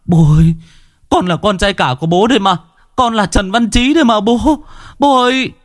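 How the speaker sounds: plead, lips trembling; tearful pleading. A narrator's reading. Son tearfully begging his father to know him, choked. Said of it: "Chú Trí mếu máo".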